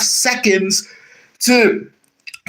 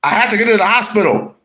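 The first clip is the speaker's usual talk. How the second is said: panicked plea. Acted. Acted panicked patient in skit.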